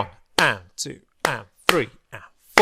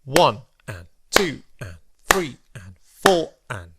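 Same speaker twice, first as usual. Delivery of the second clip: rhythmic counting. Shown as a demonstration. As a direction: count the quavers in strict even time. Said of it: "what it would sound like if we were to clap and count".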